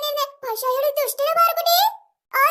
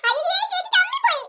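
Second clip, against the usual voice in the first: teasing laugh; 5 semitones higher than usual. Acted. Sister teasing the elder sister.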